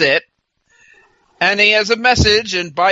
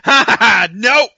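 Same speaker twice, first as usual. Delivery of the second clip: mocking laugh; 3 semitones higher, 4 dB louder than usual. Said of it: "laughs before saying".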